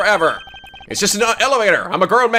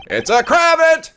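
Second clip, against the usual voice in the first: slow high offended; indignant correction; 11 semitones higher, 3 dB louder, slower than usual. Acted. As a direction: correct them haughtily.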